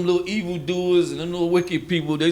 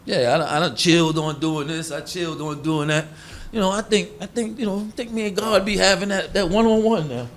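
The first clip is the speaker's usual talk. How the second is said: a hammed-up holier-than-thou voice climbing in pitch; mock holier-than-thou. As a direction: puff up like someone sure God talks only to him. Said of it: "That's when they say".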